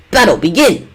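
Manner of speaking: loud announcer call; fighting game announcer. Shown as a demonstration. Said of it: "I could try to do this in, like, an announcer voice".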